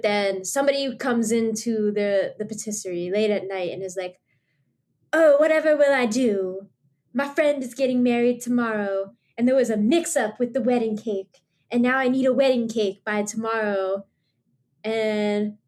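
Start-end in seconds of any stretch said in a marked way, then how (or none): 5.1-14.0 put-on slight Southern accent. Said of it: "a slight Southern accent".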